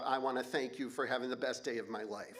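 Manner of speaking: quoting the lyric through a laugh; half-laughing mock quote. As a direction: laugh while mocking the song line. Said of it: "that fucking bitch talking about".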